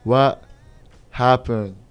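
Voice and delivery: drawn out, mildly stunned; reenacted disbelief. Host retelling watching the game, in acted disbelief. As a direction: replay your baffled reaction to the game. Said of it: "I was like".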